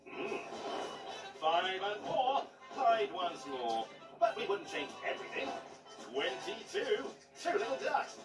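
drawn-out bingo calls; bingo caller. Acted. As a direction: call out the numbers slowly like a bingo hall. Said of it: "let's play bingo Paddy Power style".

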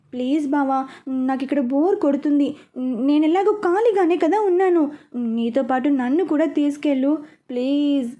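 coaxing plea to her cousin; a wheedling please; pleading. Acted. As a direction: beg sweetly to be taken along. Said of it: "బ్రతిమలాడుతోంది".

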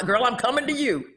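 ordinary delivery

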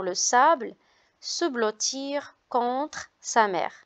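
clear, measured classroom reading; reading aloud to children. Acted. Teacher reading a beach story to her class, measured read-aloud. Teacher reads text to pupils.

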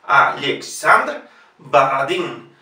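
Alexandr with ye, Baradin with A, slow; Russian pronunciation. Shown as a demonstration. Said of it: "La E siempre ye".

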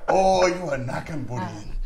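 mock Chinese accent. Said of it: "He sound like a Chinese dude?".

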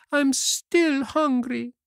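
slow, very high puppet wail. Acted. Puppet still hungry after three pears, high slow wail. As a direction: drag it out in a high plaintive whine. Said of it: "yawned deeply and wailed".

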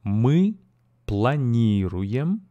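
Мы планируем said slowly for repeating; slow model phrase. Shown as a demonstration. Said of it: "so let's go".

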